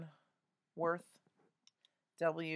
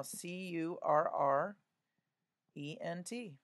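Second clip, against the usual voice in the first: spelling aloud. Shown as a demonstration. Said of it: "I'm spelling it out loud".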